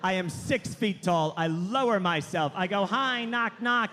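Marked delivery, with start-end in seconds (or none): 2.8-3.9 timid apologetic entrance. Retold or imitated. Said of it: "I say knock, knock out loud".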